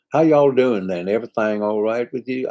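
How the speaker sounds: put-on a Brit trying a Southern American accent; Southern US accent attempt. British singer greeting an Alabama fan, trying a Southern accent. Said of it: "I don't know whether that's your accent, but I'm trying".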